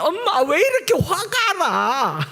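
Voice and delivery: high, drawn-out comic complaint; mock angry whine. Preacher as child angry after a fight, comic mock anger. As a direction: pretend fury as a slow, high childlike wail. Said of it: "막 싸워서 화가 나는".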